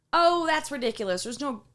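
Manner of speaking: mock scoffing. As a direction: imitate kids brushing off a warning. Kids dismissing her warning, retold.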